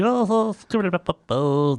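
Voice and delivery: slow hammed-up Popeye scat. Explaining Popeye's two voices, doing the slow scat. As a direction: chew the scat slowly like Popeye. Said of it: "Sometimes he".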